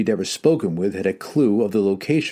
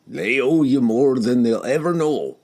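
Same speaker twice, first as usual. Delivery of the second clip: flat statement; 5 semitones higher, 4 dB louder than usual. Acted. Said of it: "Bruner stated flatly".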